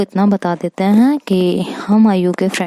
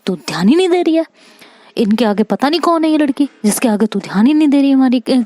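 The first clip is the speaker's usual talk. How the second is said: rapid, higher pitched grievance; fast whiny complaint; 6 semitones higher, faster than usual. Retold or imitated. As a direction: rattle off the hurt complaint. Friend complains she's ignored. (तेज़, ऊँची शिकायत)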